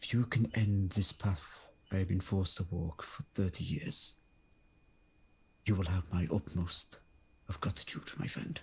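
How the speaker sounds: close, confiding stage whisper. As a psychic connection fades, a figure speaks directly into the listener's mind, whispering. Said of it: "he whispers this directly to you".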